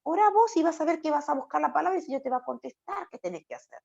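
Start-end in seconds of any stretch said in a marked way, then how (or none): 0.0-1.3 playful pastor reply. Acted. Pastor answering a believer's question.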